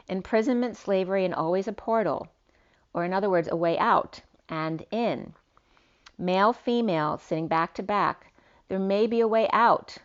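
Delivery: slightly lifted, declamatory read; poetic reading. Acted. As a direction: read it out like a cryptic verse. Reads out written poetic message.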